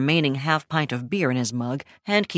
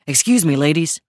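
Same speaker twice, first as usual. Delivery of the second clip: raised voice over a crowd; calling out; 6 dB louder than usual. Acted. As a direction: call out politely over noise. Sean calling over bar noise.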